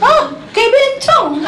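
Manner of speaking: high, drawn-out comic shriek; mock horrified yell. Husband seeing wife's hair extensions, mock horrified yell. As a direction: imitate a husband crying out aghast. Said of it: "Dia teriak".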